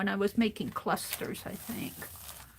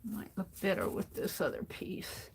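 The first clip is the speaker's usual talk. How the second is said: talking around a paintbrush held in the teeth; paintbrush in mouth; 8 dB quieter than usual. Real, not acted. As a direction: speak with a brush clamped in your mouth. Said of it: "I like the paintbrush in my mouth".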